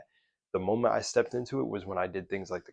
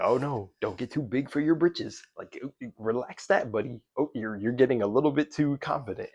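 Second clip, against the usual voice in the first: higher-pitched mock belittling; mocking condescension; 4 semitones higher, 5 dB louder than usual. Imitating people who resent the speaker's confidence, mock condescending. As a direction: talk down to them in a teasing imitation.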